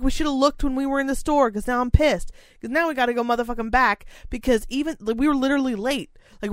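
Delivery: reliving the rage at the pizza place; retold fury. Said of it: "So pissed".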